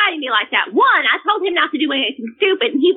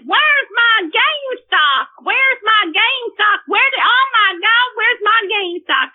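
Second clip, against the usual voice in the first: higher, drawn-out mock rage; retold tantrum, pitched up; imitated raging; 5 semitones higher than usual. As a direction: imitate a teenager's frantic demand. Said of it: "he starts raging".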